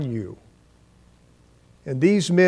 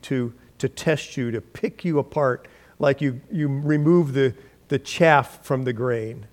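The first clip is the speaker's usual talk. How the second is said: loving. Retold or imitated. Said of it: "Lovingly, here's what Jesus told Peter".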